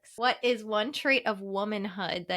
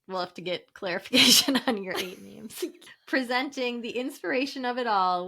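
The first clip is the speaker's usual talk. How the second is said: announcer voice. Acted. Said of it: "Kevin told me I had to read it like an announcer".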